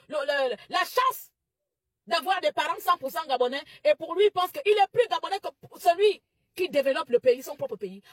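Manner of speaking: plus haut et plus fort, indignée, presque criée; elle s'emporte contre les Gabonais qui méprisent les étrangers; colère montante. Real, not acted. Tirade indignée contre compatriotes xénophobes. (tirade indignée, voix montée et forte)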